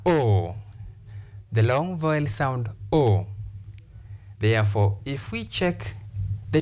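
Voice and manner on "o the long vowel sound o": "o" held long, falling; a sustained, rounded "o"; long vowel O. Shown as a demonstration. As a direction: draw out the "o" as in "deport". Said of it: "we have the long vowel sound".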